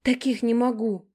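put-on high, hurt girlish exclamation, kept hushed; an offended younger sister hisses her complaint; exclaiming in a half-whisper. A narrator's reading. Younger sister complaining about Gena in the car, hushed indignant exclaim. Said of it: "восклицает она полушёпотом".

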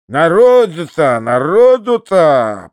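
very slow, drawn-out wonder; marvelling head-shake. A narrator's reading. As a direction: stretch each word out woozily. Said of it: "качая головой".

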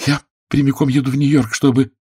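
high, eager outburst; excited exclaim. A narrator's reading. Daughter rushing to defend her fiancé, excited. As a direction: burst out with it. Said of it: "воскликнула Молли, сильно взволнованная".

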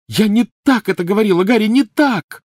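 very high, loud crying protest; tearful cry. A narrator's reading. Hermione crying out to Harry, tearful shout. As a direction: cry out, near tears. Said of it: "закричала она".

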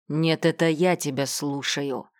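медленно, нажимая на «я»; «я» выделить, медленно и веско; грозно, с ударением на я. A narrator's reading. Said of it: "прогремел Глеб". (отец по телефону, Глеб гремит в ответ, с нажимом на «я»)

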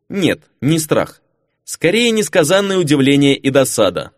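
ordinary delivery

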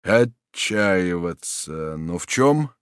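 very slow, then rising in confusion; slowly grasp the word, then ask; stunned disbelief; bewildered question. Acted. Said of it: "машинально повторил маршал".

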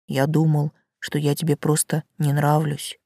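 low, soft tree voice; quiet, with effort, as a shy tree; talking tree. Acted. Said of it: "Дерево сначала говорило тихо, словно через силу".

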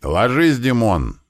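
high, urgent acted yell; yelled warning. Fighter warning his mate as sandbags collapse, high yell. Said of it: "заорал я".

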